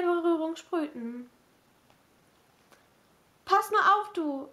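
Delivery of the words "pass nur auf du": higher-pitched playful tease; teasing. A narrator's reading. Kate teases Rob before going downstairs, teasing. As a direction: tease him with a mock warning. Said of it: "neckte sie ihn".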